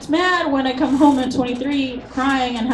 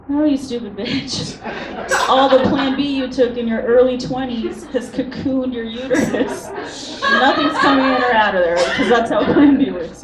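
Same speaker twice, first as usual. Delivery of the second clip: blunt doctor; 3 semitones higher, 4 dB louder than usual. Retold or imitated. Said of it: "She's gonna be like".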